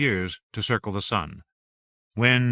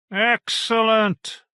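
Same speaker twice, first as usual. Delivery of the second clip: drawn-out, high, delighted; excited; 12 semitones higher, 5 dB louder, much slower than usual. Acted. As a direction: stretch it out with delight. Good news arrives.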